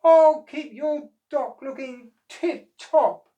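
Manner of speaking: high, loud reassuring call; called reply. Acted. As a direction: reassure Mister O across the water. Oscar promises loudly.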